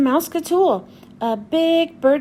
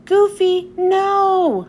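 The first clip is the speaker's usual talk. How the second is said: higher, louder warning cry; Donald yelling; 6 semitones higher, 4 dB louder, much slower than usual. Acted. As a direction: shout a warning to a friend. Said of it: "says Donald".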